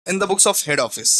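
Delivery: very slow, word by word for copying; slow dictation. Shown as a demonstration. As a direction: spell it out slowly so students can write it. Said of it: "ऐसे करके हम लोग लिखते हैं". (धीरे-धीरे लिखवाते हुए)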